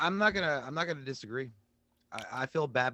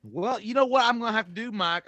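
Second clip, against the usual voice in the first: mock dramatic; 6 semitones higher, 3 dB louder than usual.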